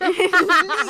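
high, loud burst of laughter; re-enacted laugh. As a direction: burst out laughing in someone's face. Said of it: "så griner jeg lige i hende ansigt".

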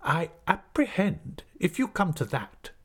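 high, slow, haughty schoolmaster; suppressed anger. A narrator's reading. Headmaster retorts to his assistant, haughtily angry. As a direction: draw it out with offended self-importance. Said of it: "with his veins swelling again bigger than ever".

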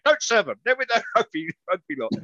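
cheeky parrot tattling to the barmaid; parrot puppet. Retold or imitated. Hand puppet parrot urging the barmaid not to serve them, high puppet squawk. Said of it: "your hand was going".

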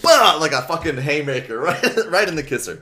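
high, loud blow-by-blow; excited reenactment. Retold or imitated. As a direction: boom out the punch with relish. Excitedly acting out Rachel's punch.

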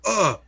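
imitating a theater groan, high and loud; high mock oh of a crowd. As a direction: groan like a shocked audience. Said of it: "hearing the groans throughout the theater".

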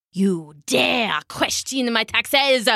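slow, indignant royal outburst in a put-on voice; shrieking king. King confronts the duck over taxes, slow theatrical outrage. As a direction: draw it out as an outraged tyrant. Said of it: "he shrieked".

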